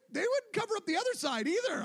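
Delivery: usual speaking voice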